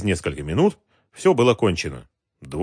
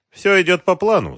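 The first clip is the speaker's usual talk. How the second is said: higher-pitched, pleased report; smiling; 9 semitones higher, 3 dB louder than usual. A narrator's reading. Officer reporting to the adviser, smiling. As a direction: say it with a smile. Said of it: "сказал, улыбаясь".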